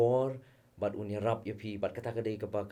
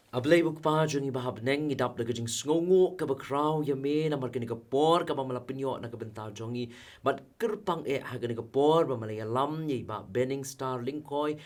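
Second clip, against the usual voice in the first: raised, earnest praying voice; fervent prayer; 3 semitones higher than usual. Real, not acted. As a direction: pray aloud with steady, rising-and-falling fervour. Leads a closing prayer.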